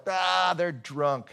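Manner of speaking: drawn-out dismissive "ah", then the jeer; heckler in the crowd. Acted. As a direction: scoff like a skeptic in the crowd. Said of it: "one person in the crowd who's like".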